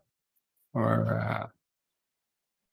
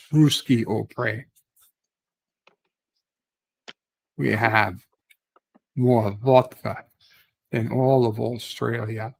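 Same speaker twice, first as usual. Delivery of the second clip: put-on Russian accent. Streamer bragging about vodka in a mock Russian accent. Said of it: "if you want accents, you can get accents".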